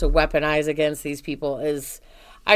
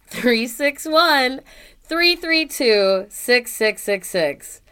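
slow and deliberate; 5 semitones higher, 4 dB louder, much slower than usual. Shown as a demonstration. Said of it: "if any of you didn't catch that".

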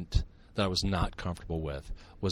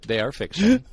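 louder, higher sarcastic deadpan; 7 semitones higher, 10 dB louder than usual. Pretend. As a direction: say it like nobody believes it. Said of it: "Did you catch the sarcasm".

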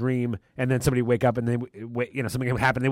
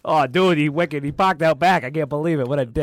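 put-on Boston accent. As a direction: play a Boston local. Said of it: "With the Boston accent suddenly".

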